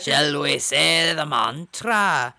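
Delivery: slow, drawn-out put-on English accent; mock English accent. Cohost tries the mantra in a wobbly English accent. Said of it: "that's like Ina trying to do an English accent".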